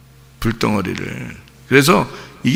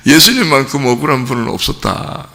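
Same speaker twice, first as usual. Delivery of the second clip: consoling counselor. Retold or imitated. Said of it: "뭐라 그러냐면 이렇게 해요".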